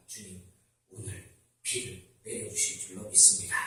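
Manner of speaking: soft, low prayer of faith; quiet prayer. Retold or imitated. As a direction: pray quietly with trust. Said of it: "이렇게 기도합니다". (조용히 믿음으로 기도)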